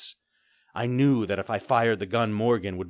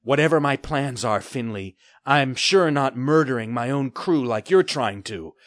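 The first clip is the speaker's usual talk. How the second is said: put-on a young lad standing up to a pirate, louder; defiant boy; 5 semitones higher, 7 dB louder than usual. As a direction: push back hard at the pirate.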